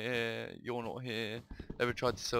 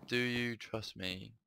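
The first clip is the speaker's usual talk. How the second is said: sad, lonely plea; much slower than usual. Acted. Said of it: "a voice of a woman, sad and lonely".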